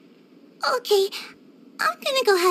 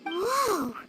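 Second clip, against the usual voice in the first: a breathy whoa, then slower wonder; amazed; 4 dB quieter, slower than usual. Acted. Daughter finds the stockpile of goods, openly amazed. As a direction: gasp at the piles of boxes.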